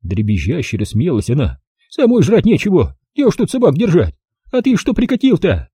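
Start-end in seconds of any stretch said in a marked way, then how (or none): 1.9-5.7 put-on higher, brisk old-woman voice; old village granny. Old granny greeting the city visitor, high old-woman voice. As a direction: voice the feisty village grandmother.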